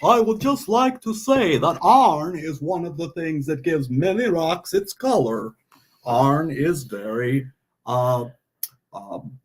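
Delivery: Russian bat turned mock Texan; Vlad's Texan accent. Bat puppet explaining rock colors, put-on Texas accent. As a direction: lecture in a put-on Texas twang. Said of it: "Russian bat becoming a Texan".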